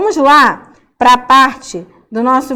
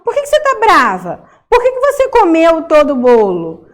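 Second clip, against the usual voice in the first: questioning someone; 4 semitones higher than usual. Acted. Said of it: "E é tipo assim".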